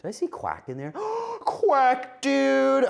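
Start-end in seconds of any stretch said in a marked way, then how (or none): 0.9-2.9 gasp, then a much higher, louder greeting; delighted gasp. Real, not acted. Greets returning viewer Quack.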